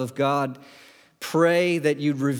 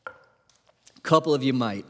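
sarcastic; 3 semitones lower than usual. Real, not acted. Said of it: "I'm being really sarcastic".

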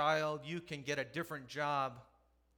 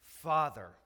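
loud cry; 10 dB louder than usual. A narrator's reading. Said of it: "called out in a loud voice".

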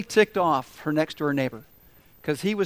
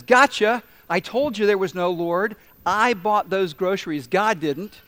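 gloating; 2 semitones higher, 5 dB louder than usual. Acted. Neighbor gloats from the bush.

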